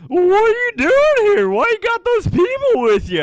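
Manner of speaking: very high, loud squawking bird voice; emu voice. Acted. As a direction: screech it like a suspicious emu. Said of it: "it's saying".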